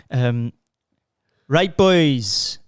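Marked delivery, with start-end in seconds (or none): 1.5-2.6 drawn-out, shaky attempt at Welsh accent. Man showing how the fitness guy starts, Welsh accent. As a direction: have a go at a strong Welsh accent. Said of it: "the particular accent he's got is like".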